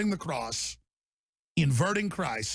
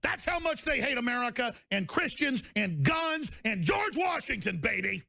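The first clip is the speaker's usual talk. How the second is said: ranting shout; 6 semitones higher than usual. Real, not acted. Host ranting against America's enemies.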